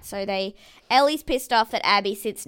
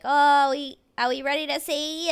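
mock rousing call; 5 semitones higher, 4 dB louder than usual. Imitating host rousing the group.

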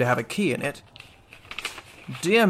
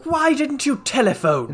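higher, bewildered question; baffled; 9 semitones higher than usual. Acted. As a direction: ask it in bewilderment. General baffled by disguise.

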